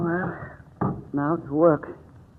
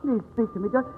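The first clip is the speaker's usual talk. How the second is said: higher and louder, panicking and begging for his life; terrified pleading; 6 semitones higher, 4 dB louder than usual. Acted. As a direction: plead in rising terror as the killer closes in. Victim faces unseen killer alone.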